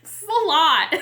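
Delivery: real overwhelmed laugh. Real, not acted. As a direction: laugh at how much it all is. Overwhelmed laugh after plea.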